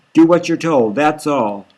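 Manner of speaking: tearful, insistent order; sniffling. Acted. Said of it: "She's sniffling".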